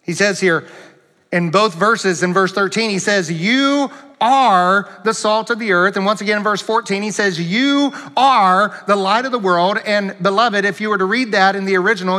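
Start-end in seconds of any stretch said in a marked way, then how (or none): 3.3-6.0 firm emphasis on "You are"; emphatic. Retold or imitated. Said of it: "it is very emphatic". 7.4-9.8 emphatic declaration led by "You are". Retold or imitated. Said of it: "it is very emphatic".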